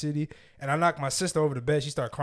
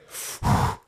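imitated heavy exhale. Acting out dad's reaction before punch.

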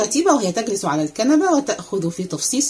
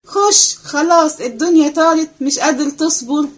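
higher, louder, slow nagging at the door; impatient scolding; 7 semitones higher, 4 dB louder than usual. Acted. Maid scolding the boy at the door, higher and louder. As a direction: drag it out, fed up.

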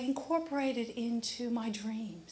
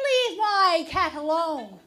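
stern warning; 4 semitones higher, 9 dB louder, slower than usual. Retold or imitated. Confronting the crow.

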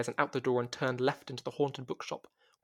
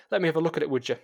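booming Scottish request; 3 semitones higher, 6 dB louder, much faster than usual. A narrator's reading. Mandy voiced after laughing.

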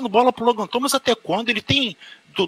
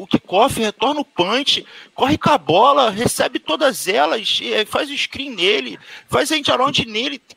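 all in one breath; 4 semitones higher than usual. Real, not acted. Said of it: "deixa eu respirar aqui".

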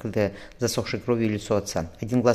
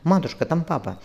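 put-on higher desperate child's cry; 7 semitones higher than usual. A narrator's reading. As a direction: cry out in despair. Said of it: "отчаянно крикнула".

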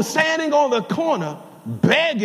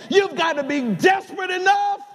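preaching shout; 5 semitones higher than usual. Acted.

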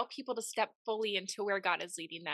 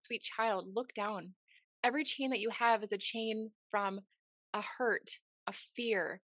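tender God voice. Retold or imitated. God speaks tenderly in dream.

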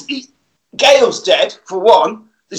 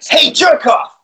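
high mock shout of "Hey, jerk off!"; hammed-up tough yell; 10 semitones higher, slower than usual. Robot man taunts the street punks, hammed-up shout. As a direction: bark it like a cheesy eighties hero. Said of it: "he goes".

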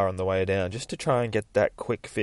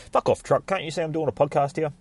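higher-pitched irritated call; annoyed heckle; 7 semitones higher than usual. Real, not acted. Podcaster telling off a passing truck, annoyed. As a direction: tell off a noisy passerby.

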